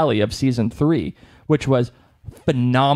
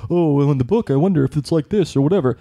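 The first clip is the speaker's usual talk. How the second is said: mock musing; faster than usual. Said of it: "I'm not gonna sit here and say".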